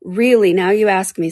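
a touch of bewilderment; mildly flustered reply; confused. Acted. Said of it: "very much confused".

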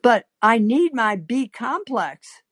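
tentative, drawn-out objection; a little uncertainty. Acted. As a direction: protest with mild uncertainty. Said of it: "a little uncertainty".

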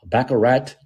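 Baccarat said as BACK-uh-RAT; questioning Baccarat with a rising final RAT; mispronounced surname. Retold or imitated. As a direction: guess at the botched name, ending "Baccarat" on a hard T. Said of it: "What did he call him?".

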